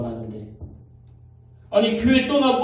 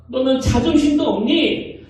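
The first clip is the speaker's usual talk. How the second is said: mother scolding; 4 semitones higher, 4 dB louder than usual. Retold or imitated. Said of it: "야단을".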